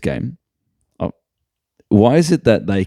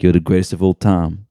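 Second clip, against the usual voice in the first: A rapper's drawl. Retold or imitated. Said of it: "You know how he talks like that?".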